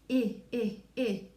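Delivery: short I sound repeated alone; isolating the vowel. Shown as a demonstration. Teacher isolating the middle sound. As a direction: tap out the short I on its own. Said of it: "we hear the".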